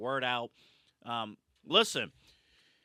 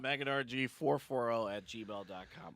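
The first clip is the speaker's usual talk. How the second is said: quiet; 6 dB quieter than usual. Shown as a demonstration. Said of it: "repeats email plug".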